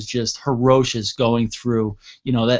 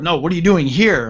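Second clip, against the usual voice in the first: insistent cop; 4 semitones higher, 5 dB louder than usual. Retold or imitated. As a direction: imitate a cop demanding, higher and louder. Cop pressing for an answer.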